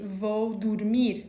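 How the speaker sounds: 'vou dormir' said slowly and clearly; Portuguese example. Shown as a demonstration. Teacher showing Portuguese form to students, slow model. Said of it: "that's gonna be".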